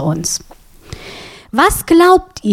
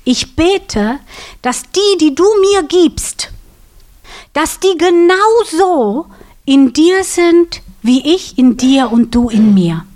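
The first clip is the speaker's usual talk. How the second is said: lightly voiced earnest prayer, higher; Jesus praying; 4 semitones higher than usual. Preacher voices Jesus praying to God, a lightly higher plea. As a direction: plead it upward to the Father, a hint of Jesus. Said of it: "hat Jesus zu Gott gesagt".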